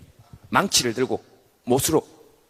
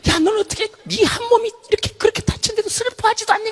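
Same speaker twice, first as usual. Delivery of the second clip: much higher, whiny reproach; reproachful organs; 6 dB louder than usual. Acted. Organs scold head, high whiny reproach. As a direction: nag the head in a squeaky voice.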